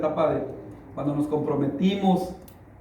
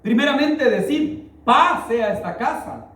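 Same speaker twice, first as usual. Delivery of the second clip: scripture reading; 5 semitones higher than usual. Acted.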